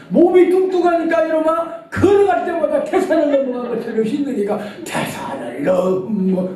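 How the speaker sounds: put-on half-laughing shout of a big old mother; a mother laughing off her son's question; mother scolding.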